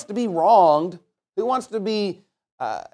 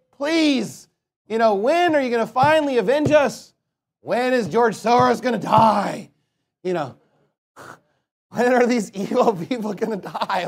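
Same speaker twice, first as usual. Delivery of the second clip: mock nagging plea; 4 semitones higher than usual. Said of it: "they're like".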